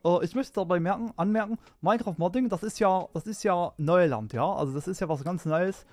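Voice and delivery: a hint of Merkel's measured address; steady chancellor speech tone, light impression; mild Merkel speech impression; Angela Merkel. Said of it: "that was a Angela Merkel impression".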